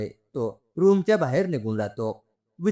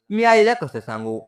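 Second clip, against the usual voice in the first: alarmed outburst; 9 semitones higher, 5 dB louder than usual. Acted. Sister-in-law shocked by accident news.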